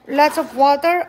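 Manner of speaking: rising amazed lots of water; playfully amazed question; surprised. Real, not acted. Parent's exaggerated surprise to child.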